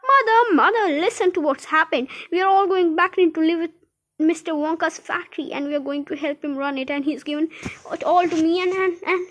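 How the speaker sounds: put-on high, breathless-with-news child; excited cry. A narrator's reading. Charlie tells mother about the factory, bubbling over excitedly. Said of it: "cried Charlie, rushing into".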